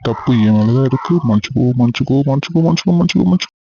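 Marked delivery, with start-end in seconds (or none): 1.3-3.5 mock-apologise over and over, rising; a hammed-up string of sorries climbing in pitch; teasing apology. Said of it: "என்ன கிண்டல் பண்றியா?".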